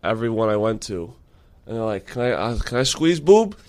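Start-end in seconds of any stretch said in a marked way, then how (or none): 2.1-3.6 put-on Asian accent. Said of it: "Don't do the accent".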